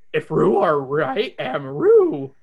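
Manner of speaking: slow slobbery dog talk; Scooby-Doo voice. Acted. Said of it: "Scooby slobbers".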